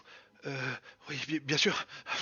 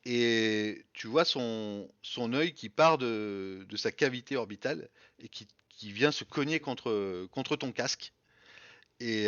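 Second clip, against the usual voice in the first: slow horror narration; slower than usual. Acted.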